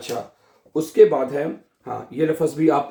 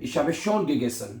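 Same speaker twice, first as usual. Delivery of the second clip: slow example sentence; 4 dB quieter, much slower than usual. Shown as a demonstration. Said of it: "अगर आप कहते हैं".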